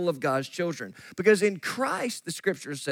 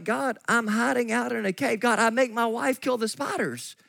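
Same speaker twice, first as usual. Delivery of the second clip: Gideon's sarcasm; 3 semitones higher than usual. Acted. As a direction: play a mildly sarcastic, doubting objector. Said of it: "you'd almost hear the sarcasm in Gideon's voice".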